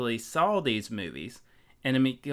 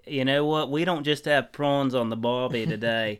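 hammed-up Aussie host voice, lightly done; put-on Australian accent, half-serious; mock Australian accent. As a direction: play a cheesy Australian bloke. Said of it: "man, your accent".

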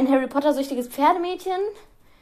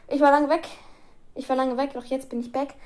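quoting a catchphrase; 2 semitones higher, 3 dB louder than usual. Retold or imitated. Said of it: "eine Line war von einem Rapper".

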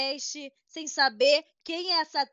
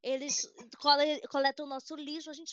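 put-on Portuguese accent; playfully affected Portuguese accent; 2 semitones higher, 4 dB quieter than usual. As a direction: speak with a mock Portuguese accent. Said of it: "Por que você fala com sotaque português".

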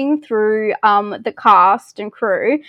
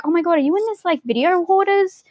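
excited fans; 9 semitones higher than usual. Retold or imitated. Fans messaging her, excited quote.

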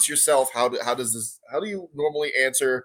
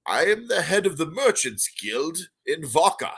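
put-on a prim old gnome merchant, unhurried; 4 semitones higher than usual. GM voicing the gnome.

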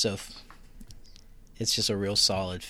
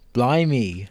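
loud mock-British exclamation; mock British accent; 5 dB louder than usual. Co-host pokes fun at actors doing accents, mock British. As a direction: put on a cartoon British accent. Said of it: "These guys are just doing accents".

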